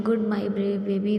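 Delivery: slow, gentle reassurance; husband soothing his scared wife, slow and tender; tender comfort. Acted. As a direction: ease her nerves, very slowly.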